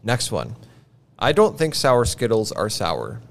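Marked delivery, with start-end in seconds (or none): 1.2-3.2 flat, even deadpan read; monotone voice. Shown as a demonstration. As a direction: say it with zero inflection. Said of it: "I'm gonna say it in a monotone voice".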